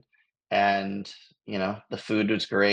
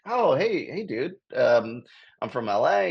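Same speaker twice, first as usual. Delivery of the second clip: surprised friendly hello; 5 semitones higher than usual. Retold or imitated. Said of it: "I'm like".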